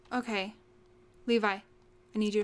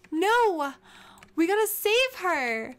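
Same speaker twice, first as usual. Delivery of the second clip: loud, high protest; raised, urgent wail; desperate cry; 5 semitones higher, 6 dB louder, slower than usual. Real, not acted. Desperate to save dead character.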